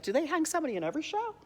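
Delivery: high, quick, scandalised question; high-pitched incredulous patron; appalled audience member. Acted. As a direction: ask it in mock alarm. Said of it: "must be like".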